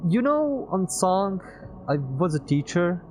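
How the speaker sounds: put-on high, loud wistful young man; Peter's voice. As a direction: voice Peter, a little sad.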